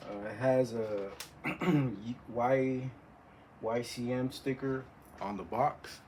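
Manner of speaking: distorted, crackling audio; fuzzy, blown-out recording; fuzz distortion. Real, not acted. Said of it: "Sorry about the distortion".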